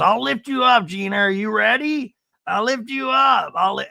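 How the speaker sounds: hammed-up eager helper; mock eager offer. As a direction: chirp it eagerly. Imitating Emily lifting Gina.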